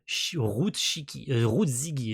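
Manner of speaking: tripping over the name, then correcting; stumbling. Real, not acted. Streamer fumbling a character's name late at night, stumbling. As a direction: stumble on the words and restart. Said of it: "excusez-moi, je bégaye".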